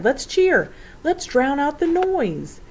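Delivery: high, loud, drawn-out rallying call; rally them loudly over the noise; rallying cry. A narrator's reading. Professor urging children to cheer, excited cry. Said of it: "he cried".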